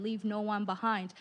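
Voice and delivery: ordinary talk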